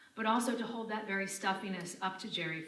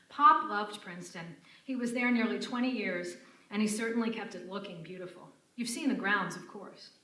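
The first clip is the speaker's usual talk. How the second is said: uncouth nightclub singer; 2 semitones higher, 6 dB louder than usual. Retold or imitated. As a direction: drag it out like a tipsy showgirl. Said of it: "Lucy plays Lola as an uncouth".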